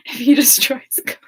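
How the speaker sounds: hushed, breathy read of the deal's terms; whispered contract quote. Retold or imitated. Quoting a friend's playful deal in a whisper. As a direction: whisper the contract, then a laugh breaks in. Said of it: "the contract is".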